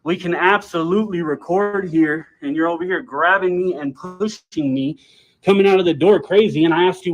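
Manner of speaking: loud accusing rant; angry. Real, not acted. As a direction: call him out loudly. Arguing with employee on camera.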